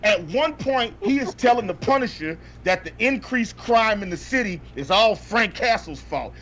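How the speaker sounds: ordinary talk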